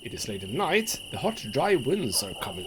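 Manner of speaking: measured dramatic storyteller reading; story narration. A narrator's reading. Game player reading the story aloud, dramatic narration. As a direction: read it out like a grim tale.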